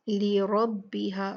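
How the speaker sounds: लिरब्बिहा with a full, heavy रा, slowly; लिरब्बिहा read slow with a heavy रा. Shown as a demonstration. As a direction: stretch out लिरब्बिहा, रा thick and rounded. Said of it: "रा पे फतहा है तो ये मोटी पड़ी जाएगी".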